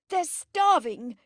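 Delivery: high, loud, slow outcry; shouted. Acted. Helen shouting at her sister on arrival. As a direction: shout it in fury. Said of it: "she shouted".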